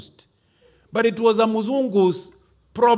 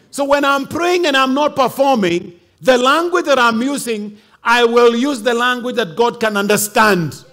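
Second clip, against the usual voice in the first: ordinary delivery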